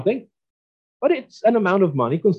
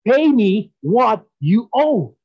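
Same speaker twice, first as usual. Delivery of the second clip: mock scream; 5 semitones higher, much slower than usual. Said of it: "screaming at this person".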